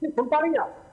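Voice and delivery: breaking up on a bad phone line; bad connection. Real, not acted. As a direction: voice cutting in and out. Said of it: "आपकी आवाज cut रही है".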